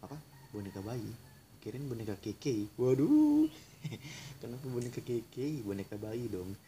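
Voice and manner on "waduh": high startled cry; shocked yelp. Real, not acted. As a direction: yelp in surprise. Reacts to creepy doll joke.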